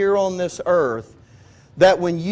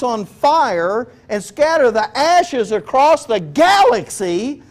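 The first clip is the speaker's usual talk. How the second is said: building preaching climax; 5 semitones higher, 4 dB louder than usual. Real, not acted. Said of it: "preaching rises to climax".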